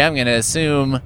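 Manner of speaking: ordinary talk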